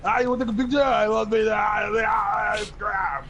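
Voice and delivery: high, loud, gushing fan outburst; hammed-up excited shrieking, rushing at first; starstruck fan. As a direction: lose it over meeting your idol. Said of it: "you wanna go like".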